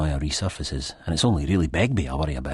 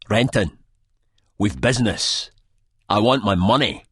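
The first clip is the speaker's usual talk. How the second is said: louder, higher hard demand; barking demand; 4 semitones higher, 4 dB louder than usual. A narrator's reading. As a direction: bark it at him like a debt collector. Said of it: "he barks".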